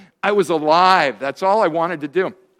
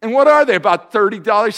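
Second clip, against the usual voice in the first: indignant loud question; 3 semitones higher, 6 dB louder, faster than usual. Retold or imitated. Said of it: "And I said".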